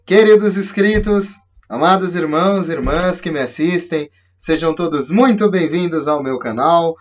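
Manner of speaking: excited greeting. Real, not acted. Channel intro greeting viewers.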